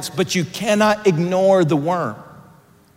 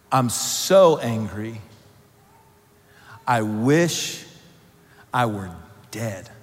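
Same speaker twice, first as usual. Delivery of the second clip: much softer, slow, sinking to almost nothing; despairing Jonah; 7 semitones lower, 4 dB quieter, slower than usual. Acted. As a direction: let the wish to die fade out. Jonah's despair voiced to God.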